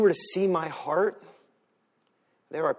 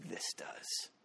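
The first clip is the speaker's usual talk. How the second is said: mock tough Lucy; 9 semitones lower, 17 dB quieter than usual. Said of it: "she wraps it up like this, and she goes".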